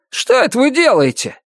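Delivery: high indignant man's voice; exclaiming neighbor. A narrator's reading. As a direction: call out sharply, put out. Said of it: "воскликнул негодный". (возмущённый возглас соседа)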